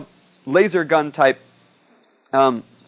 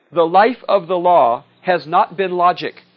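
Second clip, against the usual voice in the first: slow, louder courtroom declaiming; grand pronouncement; 3 semitones higher, 5 dB louder, slower than usual. Acted. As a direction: proclaim it slowly like a lawyer in court. Snoopy lawyer quote, declaimed slowly.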